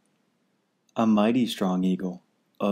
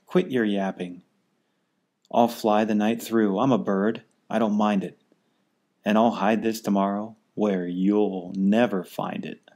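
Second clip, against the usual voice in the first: lightly raised, dismissive eagle; called back. Acted. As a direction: toss it back over your shoulder. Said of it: "over his shoulder called back".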